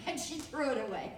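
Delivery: giggling as she tells how it ended; laughing. Real, not acted. Telling the guild how the quilt ended, laughing.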